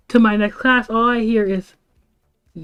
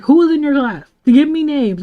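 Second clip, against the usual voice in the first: higher-pitched mock interrogation; angry demand; 5 semitones higher than usual. Friend questioning the speaker about the class, angry. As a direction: act out a friend demanding names. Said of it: "she was so angry".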